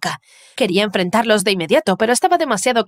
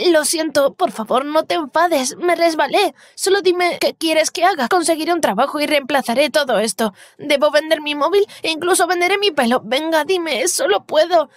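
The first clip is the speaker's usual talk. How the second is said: higher, frantic begging apology; panicked pleading; 5 semitones higher than usual. Acted. Jamie begs Candice not to be angry, frantic and high. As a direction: plead desperately, tripping over words.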